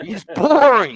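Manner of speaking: taunting playground boring; mock-bored. Repeating boring to mock rival.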